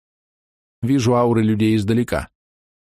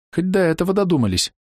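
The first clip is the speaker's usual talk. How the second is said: scoffing snort, pitched higher; 9 semitones higher than usual. A narrator's reading. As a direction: huff it out dismissively. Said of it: "фыркнула жена".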